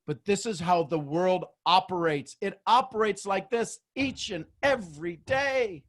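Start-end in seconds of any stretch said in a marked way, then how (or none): none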